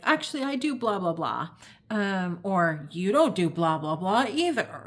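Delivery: mildly combative comeback, punched loud at the start; fight response. Pretend. Arguing back at an accuser, lightly acted defensiveness. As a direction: argue back in a mock retort. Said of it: "So you've got fight".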